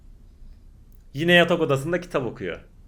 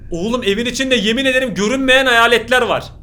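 louder, urgent and wide-eyed; excited; 4 semitones higher, 5 dB louder than usual. Real, not acted. Youtuber to viewers, spooked and loud. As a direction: blurt it out, spooked and thrilled. Reacting to invisible ghosts.

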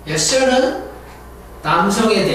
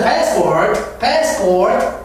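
American passport; much slower than usual. Shown as a demonstration. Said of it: "미국에서는".

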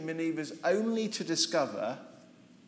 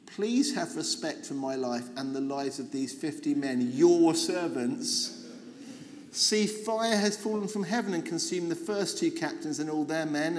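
begging; 3 dB louder than usual. Acted. Third captain kneeling before Elijah, pleading understatedly. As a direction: lean into the plea for mercy. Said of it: "he begged".

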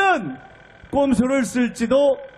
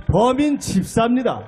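ordinary talk

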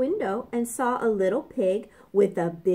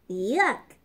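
usual speaking voice

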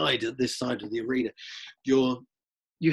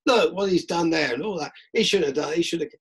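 animated, higher fan banter; football fan chatter; 5 semitones higher than usual. Retold or imitated. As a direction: argue the play like a fan. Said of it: "and you'll say".

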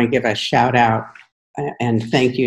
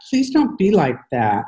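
higher, more desperate plea with a break in the voice; pleading, voice cracking; 4 semitones higher than usual. A narrator's reading. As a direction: beg harder, let the voice crack on don't. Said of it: "Nick's voice cracks".

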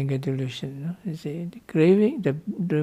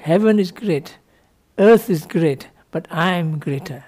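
proud proclamation; 5 dB louder than usual. Retold or imitated. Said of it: "and the Chinese say".

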